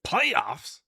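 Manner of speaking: a sudden goofy high-pitched outburst; silly squeaky voice. Pretend. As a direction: jump way up into a cartoon squeal. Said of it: "I don't know why I said that".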